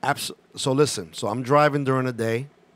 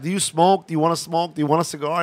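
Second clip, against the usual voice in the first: nervous rambling offer; 4 semitones higher, 5 dB louder, faster than usual. Retold or imitated. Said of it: "He goes, I like".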